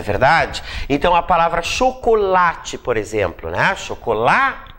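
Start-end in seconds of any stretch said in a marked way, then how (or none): 1.6-2.8 chocolate with a firm stress on LA. Shown as a demonstration. Teacher giving an example word, stress on LA. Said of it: "Qual é a sílaba mais forte?". 3.8-4.7 chocolate broken up, cho-co-LA-te, with LA held long; stress on LA. Shown as a demonstration. Teacher showing the strongest syllable, stress on LA. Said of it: "A sílaba tônica é o lá".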